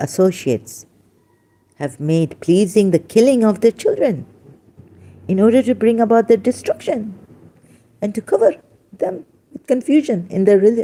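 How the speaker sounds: overcome with emotion. Speaker explaining a religious passage to listeners, getting emotional. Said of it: "sorry, I get the very emotional".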